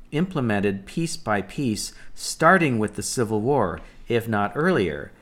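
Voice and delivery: measured, deliberate read-aloud of an article. Acted. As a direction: read the post out carefully, phrase by phrase. Reads post aloud.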